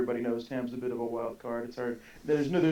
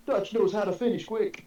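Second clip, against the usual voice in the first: high excited shout; retold scream; 8 semitones higher than usual. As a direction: yell it like a victory cry. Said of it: "he screamed".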